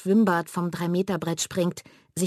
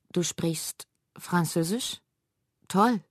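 delighted; slower than usual. Acted. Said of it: "freut sich Bela".

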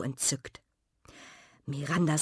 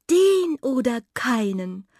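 high, smitten declaration; enraptured; 7 semitones higher, 5 dB louder than usual. A narrator's reading. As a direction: declare it, swept away by love. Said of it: "hauchte Miranda verzückt". (verzückt, mit hoher Stimme)

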